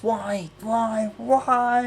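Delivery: high, loud pleading why; exasperated cry. Real, not acted. Ranting vlogger begging Parliament to explain, exasperated cry. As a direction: throw the question up in despair.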